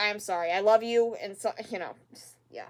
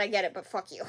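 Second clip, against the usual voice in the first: laughing curse; 4 semitones lower, 6 dB quieter than usual. Real, not acted. Laughs while cursing.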